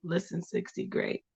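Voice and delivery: low, soft tiger growl. Pretend. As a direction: purr it like a big cat. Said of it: "Sixty in my tiger voice".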